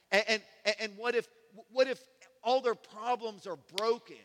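voice of faith. Retold or imitated. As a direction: build each what if into bold hope. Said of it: "But faith says".

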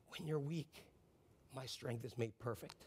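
hushed, tender promise; gentle reassurance. Acted. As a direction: quietly lift up someone who feels weak. God answering the weary believer.

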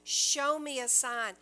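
urgent begging plea; pleading cry. Retold or imitated. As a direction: cry out to God for a sign. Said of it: "crying out".

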